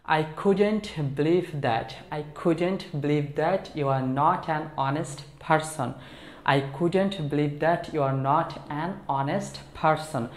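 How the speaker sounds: very slow, lightly irritated disbelief; annoyed disbelief. Shown as a demonstration. Teacher models disbelief at a dishonest person, mildly annoyed. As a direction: let mild annoyance drag each word. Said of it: "এই এক্সপ্রেশনটা তুমি বিরক্তি সহকারে".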